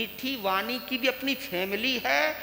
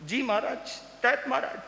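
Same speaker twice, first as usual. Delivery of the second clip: imitating a fawning yes-man; sweet, obedient devotee's reply, put on; mock flattery; 3 semitones higher than usual. Devotee afraid of his guru's displeasure, mock deference. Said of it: "बहुत मीठा बोलता है".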